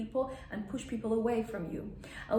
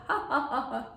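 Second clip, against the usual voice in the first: mock laugh with mouth wide open; 3 semitones higher than usual. Shown as a demonstration. Teacher showing how not to laugh, open-mouthed mock laugh. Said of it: "the whole mouth is open".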